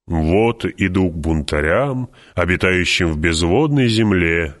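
slow, drawn-out chanting delivery; half-chanted quotation, vowels stretched; singsong recitation. A narrator's reading. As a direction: intone it like a quoted verse. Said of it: "нараспев произнёс Халик".

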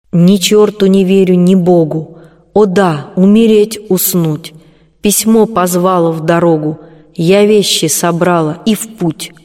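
measured verse with weighted pauses; poem recitation. A narrator's reading. Colombina tries a second farewell poem, measured recitation.

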